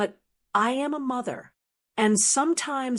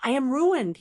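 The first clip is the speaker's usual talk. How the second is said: choked out; 4 semitones higher, 4 dB louder than usual. Acted. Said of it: "he choked out".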